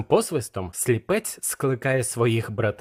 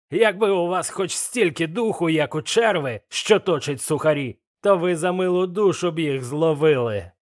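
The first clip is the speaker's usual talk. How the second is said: lightly voiced, raised pirate tirade; blind Pew berating; 5 semitones higher than usual. Blind Pew scolds his cowardly crew, mild raised fury. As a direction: scorn the cowards into searching.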